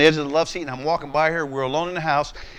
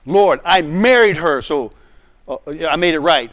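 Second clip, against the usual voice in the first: defensive protest; 6 dB louder than usual. Retold or imitated. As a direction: drag out the excuse, louder. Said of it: "Now watch my responses".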